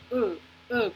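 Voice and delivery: "U" as the short vowel uh, as in turn; clipped uh sound for "U". Shown as a demonstration. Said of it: "pero la U corta".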